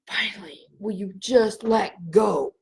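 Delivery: sighed, breathy whisper from the beyond. Retold or imitated. Spirit grandparents whisper to Danielle to let go, soft whisper. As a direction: breathe it like a ghost at her ear.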